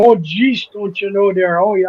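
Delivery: a light Minnesota lilt on oh jeez, barely shifted; mock Fargo accent. Midwesterner joking about the meet-up, lightly hammed Minnesota accent. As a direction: playfully slip into a Midwestern twang. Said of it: "I'll sound like the guy from Fargo".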